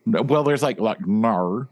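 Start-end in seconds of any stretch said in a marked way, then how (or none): 1.1-1.7 "Nar" with the Australian vowel and an r-like end. Shown as a demonstration. Showing friends an Australian no, "Nar" with flipped vowel. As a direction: turn no into "Nar", Australian style. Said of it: "That was an Australian no".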